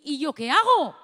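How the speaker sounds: a loud plea called after him. Retold or imitated. Shouting after the swim teacher, a loud plea.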